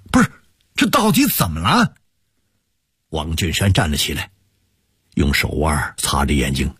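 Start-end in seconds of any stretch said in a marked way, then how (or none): 0.1-1.9 loud demand. Acted. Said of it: "拍着桌子大声地说".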